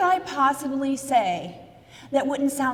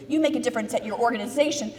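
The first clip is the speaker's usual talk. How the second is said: ordinary talk, nothing marked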